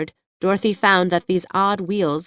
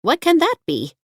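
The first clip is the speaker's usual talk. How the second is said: higher startled question; alarmed exclaim; 10 semitones higher, 3 dB louder than usual. A narrator's reading. Dorothy asks the hen, higher alarmed exclaim. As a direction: ask in sudden alarm. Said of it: "exclaimed Dorothy".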